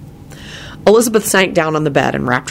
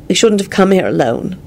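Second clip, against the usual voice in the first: high, tearful regret; a touch of tears, pitched up; 4 semitones higher than usual. A narrator's reading. Woman regretting coming here alone, tearful. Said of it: "Elizabeth said tearfully".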